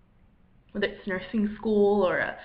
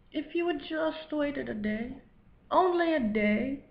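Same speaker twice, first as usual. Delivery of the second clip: lightly put-on voice of God; Sean Connery. God tells what was coming, light impression. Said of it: "that you have a Sean Connery voice".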